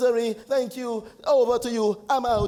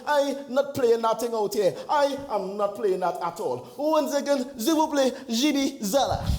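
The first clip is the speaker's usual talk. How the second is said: badly faked French accent; halting mock-French with hesitant "uh"s; put-on French accent. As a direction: defend yourself in a phoney French accent. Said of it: "this is the accent".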